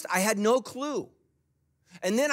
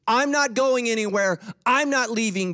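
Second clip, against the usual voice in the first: louder, higher, firm declaration; emphatic preaching; 7 semitones higher, 5 dB louder than usual. Retold or imitated. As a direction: proclaim it like from the pulpit. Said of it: "I've literally said this in a message".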